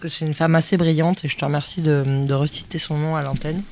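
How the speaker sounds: talking while crunching chips. Real, not acted. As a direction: mouth full of chips. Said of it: "je mange des chips en même temps".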